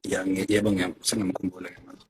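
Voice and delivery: very soft, low-volume answer; speaking far too quietly; barely audible. Real, not acted. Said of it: "Your voice is very low".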